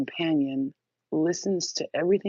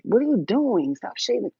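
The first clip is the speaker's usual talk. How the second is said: mock complaint; 6 semitones higher, 4 dB louder than usual.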